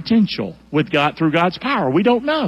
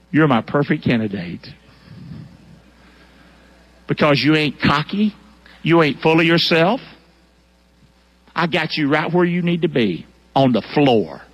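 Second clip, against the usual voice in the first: lower, calm fatherly voice; God speaking; 4 semitones lower than usual. Acted. Preacher voicing God answering Gideon, lower and calm. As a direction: reassure gently from above. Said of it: "you know what God says".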